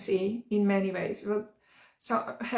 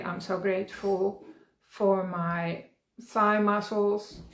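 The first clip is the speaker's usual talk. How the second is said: slow, savouring each word of gratitude; slow gratitude affirmation; slower than usual. Shown as a demonstration. Coach shows how to thank your body, slow and heartfelt. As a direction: linger on "thigh muscles" as if truly thankful. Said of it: "you can say".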